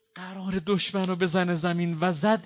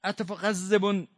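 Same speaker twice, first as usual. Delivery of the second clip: loud, rising wail of a sister; keen it out in grief; grieving cry; 6 semitones higher, 8 dB louder than usual. Acted. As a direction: lament rising to a high sob. Zeinab's cry voiced in rowzeh.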